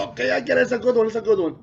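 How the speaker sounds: high, amused teacher voice; teacher giving in. Retold or imitated. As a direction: play the teacher pretending he gets it. Teacher voiced, laughing along.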